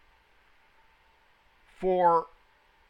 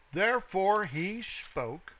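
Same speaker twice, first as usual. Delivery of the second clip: scripture reading. Acted. Teacher reading the king's furnace command to students, deliberate scripture reading. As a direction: read it out deliberately, stressing phrase by phrase.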